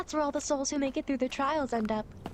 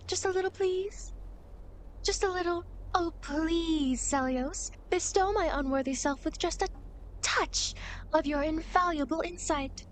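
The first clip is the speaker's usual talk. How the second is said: mock pleading; 2 semitones higher than usual. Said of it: "Only if you ask nicely".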